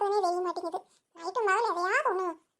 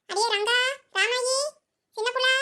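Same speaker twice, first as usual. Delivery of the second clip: calling out names; 4 semitones higher, 4 dB louder than usual. Acted. Searcher calls missing friends through the smoke, calling out. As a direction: call each friend's name into the house.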